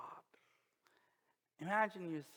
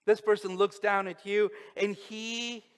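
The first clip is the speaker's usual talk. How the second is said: louder, driving repetition; loud emphatic preaching; 4 semitones higher, 10 dB louder than usual. Acted. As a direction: proclaim it to the whole room. Preacher repeats line loudly.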